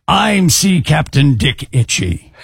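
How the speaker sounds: slow, lightly voiced commercial announcer. Reading a listener's letter, in a commercial voice. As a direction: draw it out like an ad tagline. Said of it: "Chick in his best commercial voice saying".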